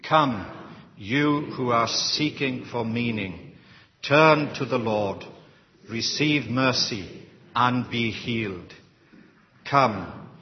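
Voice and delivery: measured, paced congregational prayer with each "Come" leaned on; slow prayer reading. Acted. Leading the congregation in a read prayer, slow and measured. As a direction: lead the room through the prayer slowly, in unison. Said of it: "let's try to read, read this a little slow".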